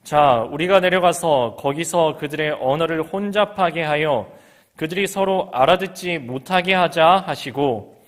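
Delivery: solemn reading. Acted. Pastor voicing God's words in Genesis, solemn. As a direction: read God's resolve with weight.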